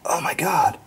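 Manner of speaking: high, hushed and uneasy, hearing something tick; real creeped-out surprise, pitch jumping up; spooked. Real, not acted. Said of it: "I'm getting goosebumps".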